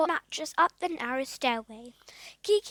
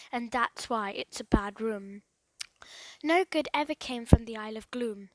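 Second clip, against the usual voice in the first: a hint of superstitious dread; lightly voiced surly handyman; 2 semitones lower than usual. Joe warns Philip off the Isle of Gloom, grim.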